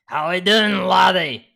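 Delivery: high, loud joke Cali greeting in a put-on brogue; put-on regional accent, pitched high; mock Cali accent. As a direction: ham up a silly accent passed off as Cali. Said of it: "in Cali, I always hear them say".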